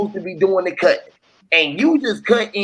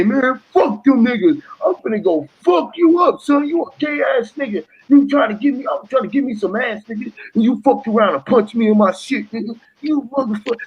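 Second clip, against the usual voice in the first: mock furious party rant; mock angry rant; 6 semitones higher than usual. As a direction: puff up and threaten. Acted angry quote, not said.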